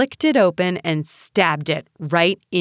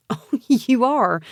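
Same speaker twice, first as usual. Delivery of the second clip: higher, drawn-out amused scoff; slow, high-pitched derision; laughed; 6 semitones higher, 3 dB louder than usual. A narrator's reading. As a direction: say it slowly, mocking with amusement. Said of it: "he laughed".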